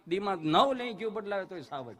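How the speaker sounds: ordinary talk, nothing marked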